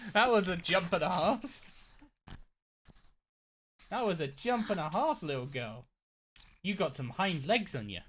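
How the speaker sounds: high, amused praise for the dog. Real, not acted. Streamer praising her dog's jump, high and amused. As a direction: fuss over the pet's big jump.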